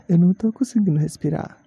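short of breath, gasping between words; breathless and struggling. Real, not acted.

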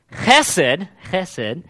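chesed with a guttural ch from the throat; chesed pronounced with a rasping Hebrew ch; Hebrew pronunciation. Shown as a demonstration. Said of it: "that's actually how you're supposed to say it".

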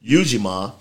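Ujima as YOO-jee-mah, opening syllable stressed; common pronunciation of Ujima. Shown as a demonstration. Host noting how most people say it, Ujima as YOO-jee-mah. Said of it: "most people pronounces it Ujima".

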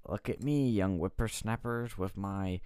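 crotchety old-timer voice, lightly put on; mock old geezer showing off; old prospector. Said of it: "Biden's trying to be like".

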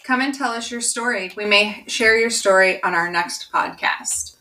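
scripted invitation to listeners; podcast outro read. Acted. Co-host inviting listeners to share stories, announcer read.

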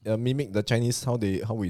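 mock indignant outburst. Mock accusation of racism.

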